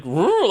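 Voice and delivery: loud, high questioning noise; imitated baffled noise. Owner stalls after hearing he's not friendly, high baffled noise. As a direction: make a mock malfunctioning sound. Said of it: "like, blue screen".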